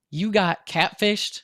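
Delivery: a high, slow disbelieving question; incredulous. Retold or imitated. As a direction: stretch it out in disbelief.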